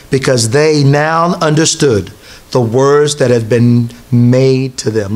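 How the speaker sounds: slow, measured Bible reading voice; scripture reading. Acted. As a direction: read the verses slowly and solemnly. Reads scripture passage aloud.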